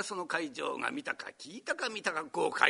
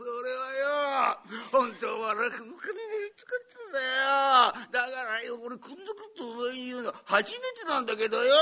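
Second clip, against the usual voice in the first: put-on drunk colleague; 5 semitones higher than usual.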